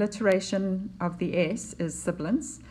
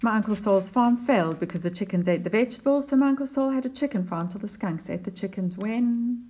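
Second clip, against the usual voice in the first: poem reading; 3 semitones higher than usual. Acted. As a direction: read the poem to the class with lift. Teacher reads the next stanza.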